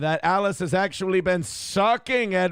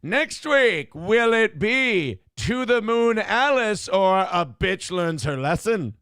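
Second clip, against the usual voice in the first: chipper 1950s ad; 3 semitones higher than usual. Retold or imitated. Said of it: "They used to go".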